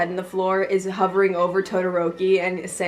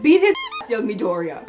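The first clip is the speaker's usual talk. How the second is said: mock hero shout; 4 dB louder than usual. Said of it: "Also All Might".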